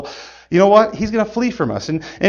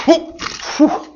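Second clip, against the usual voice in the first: startled whoop; 8 semitones higher than usual. Pretend. Trap nearly snaps on him.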